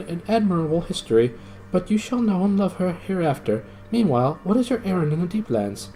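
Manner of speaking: high, earnest knightly voice; courtly young knight. Acted. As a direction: speak as a gallant young knight defending his lady.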